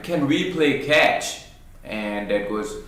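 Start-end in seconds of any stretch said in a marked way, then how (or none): 0.0-1.4 put-on a lightly higher, eager child's question; excited kid. Son asking busy dad to play catch, mildly excited. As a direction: ask like a hopeful little boy. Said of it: "very excited".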